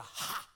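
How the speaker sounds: breathy preacher gasp "ha"; preacher's "ha". Shown as a demonstration. Showing congregation how old preachers breathed, gasped "ha". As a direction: punctuate with an old-school preacher's "ha". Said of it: "in between every breath was a".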